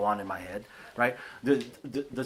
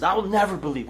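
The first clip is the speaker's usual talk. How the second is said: dramatic Thomas; 7 semitones higher, 4 dB louder than usual. Retold or imitated. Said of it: "when he says".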